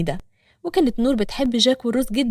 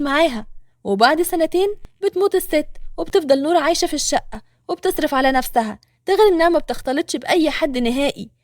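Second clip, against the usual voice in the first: Hana's voice; 3 semitones higher than usual. Acted. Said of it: "هنا".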